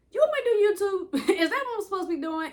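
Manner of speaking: half-laughing, rushed disbelief; incredulous question to God. Retold or imitated. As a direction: fire the question off in mock disbelief. Questioning God about doing YouTube.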